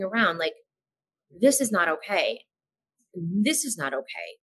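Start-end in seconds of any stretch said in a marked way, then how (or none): 3.1-4.4 much softer and slow, sinking in; quiet dawning dread. Retold or imitated. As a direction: let it sink in, almost to yourself. Realisation swirling in her head.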